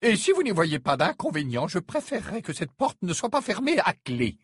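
nervous politician. Acted. Premier ministre poli, nerveux.

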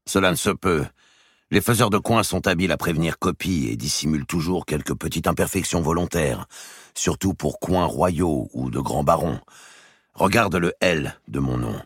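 earnest king. Acted. The king begging his brother to believe him, earnest. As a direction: insist you knew nothing.

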